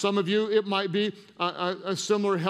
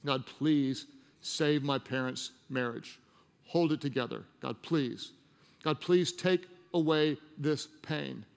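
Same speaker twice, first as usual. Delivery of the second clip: pleading prayer; 4 semitones lower, 4 dB quieter than usual. Acted. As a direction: beg God softly on someone's behalf. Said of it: "you're begging, you're praying".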